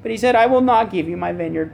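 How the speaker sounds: a hint of a whiny sulking king. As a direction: lightly whine it like a pouting king. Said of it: "imagine him saying in a whiny voice".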